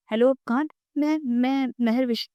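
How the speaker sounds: put-on a mild read of a girl crying; sobbing on the phone. A narrator's reading. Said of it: "اس کی سسکیوں کی آواز".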